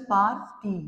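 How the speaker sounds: "পার টি" said as two separate syllables; split into syllables. Shown as a demonstration. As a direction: break "পার টি" cleanly between পার and টি. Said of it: "কটা syllable আছে".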